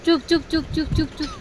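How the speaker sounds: soft, fading shushing. Real, not acted. Hushing crying child. (बच्चे को धीरे से चुप कराना)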